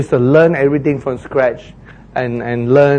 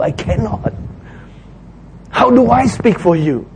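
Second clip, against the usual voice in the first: voicing a reluctant Moses, rising and pleading; 4 semitones higher than usual. Preacher voicing Moses as he protests to God, pleading. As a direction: plead like a man who feels unfit.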